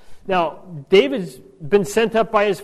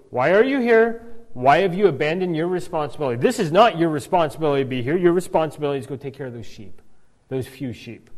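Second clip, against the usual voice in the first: crabby; faster than usual. Retold or imitated. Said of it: "he gets crabby".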